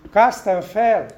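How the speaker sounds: loud call to a half-frozen friend; shouted. A narrator's reading. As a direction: yell at him to get up. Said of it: "kiáltotta a doktor".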